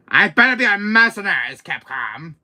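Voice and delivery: loud, high indignant outburst; angry demand. Acted. Villain demanding a part from Capcom, angry. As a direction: insist at full volume.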